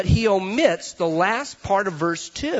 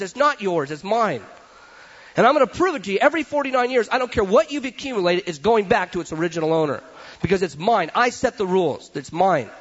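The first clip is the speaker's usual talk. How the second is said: a lightly raised, firm voice of God laying claim; God speaking; 2 semitones higher than usual. Retold or imitated. God telling the people everything is his. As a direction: declare ownership, insistent.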